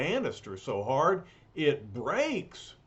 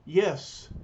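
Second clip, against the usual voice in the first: solemn hero voice; 2 semitones higher, 4 dB louder than usual. Acted. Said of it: "says the surfer".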